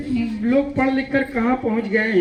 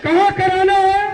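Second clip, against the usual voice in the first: louder and higher, punching कहाँ; final loud call of कहाँ कराना है, stress on कहाँ; loud call to crowd; 6 semitones higher, 5 dB louder than usual. Acted. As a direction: demand the answer, hitting कहाँ hard.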